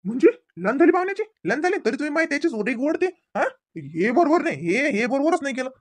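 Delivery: outraged. Acted. Father outraged at son-in-law.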